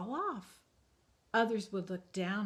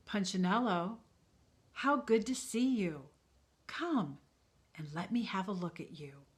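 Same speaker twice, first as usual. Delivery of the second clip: warm maker voice; 4 dB louder than usual. Acted. Eli greets warmly.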